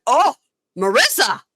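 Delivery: loud, high "oh", then the name; mock shocked reaction. Retelling Dolores hearing the hair girl's name, mock shock. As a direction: imitate a big gossipy reaction.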